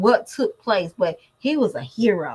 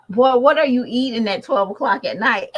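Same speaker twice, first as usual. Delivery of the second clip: scolding mom; 3 semitones higher, 5 dB louder than usual. Retold or imitated. Scolding son eating late.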